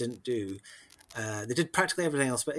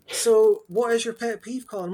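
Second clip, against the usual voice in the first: mock self-interview; 10 semitones higher, 8 dB louder than usual. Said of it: "mock interviewer asks himself".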